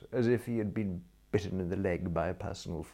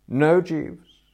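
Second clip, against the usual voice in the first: loud, high, final no; firm refusal; 9 semitones higher, 10 dB louder than usual. A narrator's reading. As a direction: shut it down firmly. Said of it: "I said firmly".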